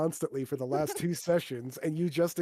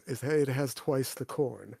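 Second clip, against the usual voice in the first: a touch of tired patience; weary sigh. Acted. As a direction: explain it with a sigh. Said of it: "he just sighs and says".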